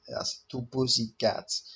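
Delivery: quiet, slow, dry reveal; deadpan reveal. Retold or imitated. Fighter reveals the cats to his friends, slow and deadpan. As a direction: drag it out, bone dry.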